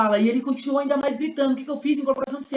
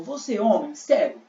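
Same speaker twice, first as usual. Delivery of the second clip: Jesus asking. Acted. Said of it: "Jesus perguntou".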